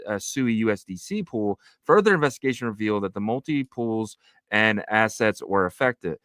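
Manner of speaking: measured read-aloud of a report; news read. Acted.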